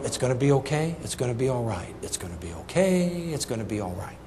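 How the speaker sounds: soft, low soothing murmur; calm her down, low and gentle; reassuring. Retold or imitated. Soothing his wife in labor.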